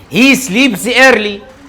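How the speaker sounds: very slow, each word set apart; slow dictation. Shown as a demonstration. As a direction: read the sentence out slowly for the class. Teacher reading exam sentence aloud. (إملاء بطيء كلمة كلمة)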